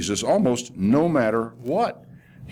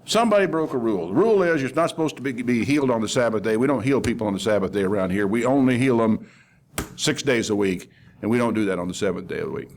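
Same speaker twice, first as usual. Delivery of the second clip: quick, fussy recital of the rules; mildly indignant mimicry, hurried; mock rule-keeper. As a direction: imitate an official rattling off regulations. Mimics the ruler fussing over rules.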